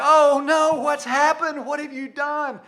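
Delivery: high, loud panicked mother; alarmed mom. Retold or imitated. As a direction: cry out like a frightened mom. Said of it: "my mom was like".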